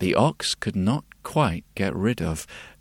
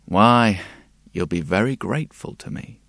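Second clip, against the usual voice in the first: lightly voiced sly bird, higher; raspy cawing crow; 3 semitones higher, 4 dB louder than usual. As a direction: coax like a tempting little crow. Crow tempts the ox.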